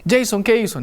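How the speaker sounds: mother asking "Jason, ¿qué hizo?" at an even pitch; a mild mother's question, not yet angry. Retold or imitated. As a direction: mom asks her son "¿qué hizo?", still calm. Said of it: "Empieza a decirme".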